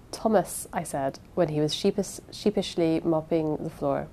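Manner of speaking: measured audiobook narration; unhurried storytelling read aloud; story narration. A narrator's reading. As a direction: read it as a first-person mystery narrator.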